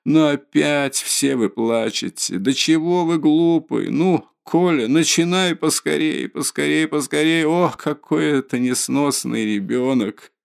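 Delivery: high, agitated distraught mother; pleading in rising panic; Katerina Ivanovna, frantic. A narrator's reading.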